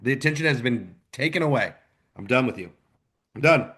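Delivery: venting his frustration, building steam; fired-up rant. Real, not acted. Fed-up fan ranting about Purdue football, mildly heated. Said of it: "that was quite a rant".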